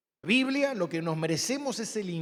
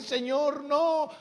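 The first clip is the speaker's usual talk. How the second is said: higher, drawn-out mock plea; retold tearful plea; 6 semitones higher, much slower than usual. Patient in pain praying not to complain, retold tearful plea. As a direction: plead as if holding back a complaint. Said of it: "yo lloraba para no quejarme y decir".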